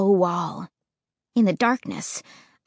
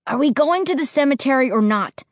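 fast, higher impatient question; 5 semitones higher, 3 dB louder, faster than usual. Acted. Josh pushing the others to hurry to the cemetery, fast and impatient. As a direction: rush it out, itching to get going. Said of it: "Josh asked impatiently".

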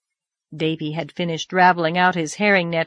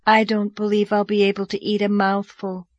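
doleful. Acted. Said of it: "said Diana dolefully".

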